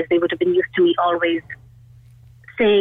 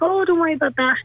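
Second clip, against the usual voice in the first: mock brush-off, pitched higher; dismissive fobbing off; 9 semitones higher, faster than usual. Mother to anxious child, a mock dismissive brush-off. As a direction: breezily wave the worry away. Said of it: "not fobbing off".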